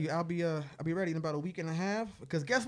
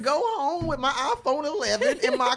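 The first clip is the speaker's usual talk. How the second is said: mock self-pity; 12 semitones higher, 8 dB louder than usual. Mock lament about hard life.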